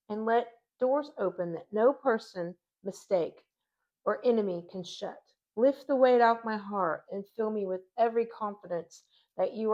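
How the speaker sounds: prayer reading. Acted. Reads closing prayer.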